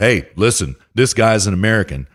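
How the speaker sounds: ordinary delivery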